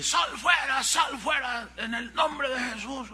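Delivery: hammed-up cry to cast the demon out; imitating exorcists shouting. Pastor imitating youths shouting at the girl, mock shout. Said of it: "la muchacha gritaba".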